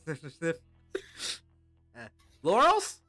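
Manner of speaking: high, loud sniffing goblin; feral goblin. Acted. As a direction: sniff around like a hungry goblin. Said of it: "this little goblin that approaches you".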